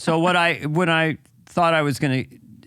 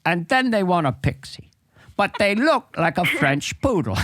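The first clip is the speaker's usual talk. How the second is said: a lightly voiced Michael Caine as a grumpy barber; hint of Michael Caine, a cockney barber griping about bad haircuts. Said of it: "Michael Caine as a barber".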